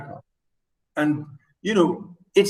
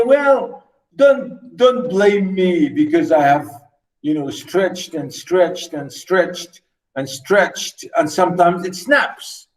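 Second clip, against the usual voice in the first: mock defensive excuse; slower than usual. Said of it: "as if to say".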